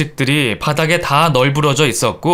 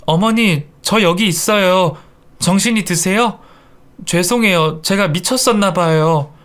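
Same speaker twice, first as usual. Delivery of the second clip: lightly acted contrite pleading, higher; pleading apology; 4 semitones higher than usual. Daughter-in-law prostrate before revived mother-in-law, pleading. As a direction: plead meekly for forgiveness. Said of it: "납작 엎드려서 빌고 있었습니다".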